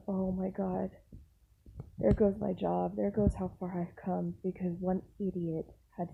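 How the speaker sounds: inner panic. Retold or imitated. Worker silently panicking that her job is gone. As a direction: mutter the dread to yourself. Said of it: "And I'm thinking".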